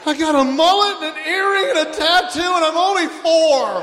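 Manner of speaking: high mock kid announcing it; little kid voice. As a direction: play a sassy four-year-old. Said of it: "one of those little kids just goes".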